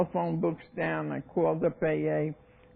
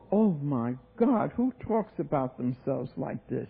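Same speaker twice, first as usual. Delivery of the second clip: shocked disapproval; 2 semitones lower than usual. Retold or imitated. Acts her shocked inner reaction.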